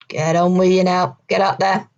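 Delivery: mild growled order, a little gruff; understated growl of command. Acted. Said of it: "he growled".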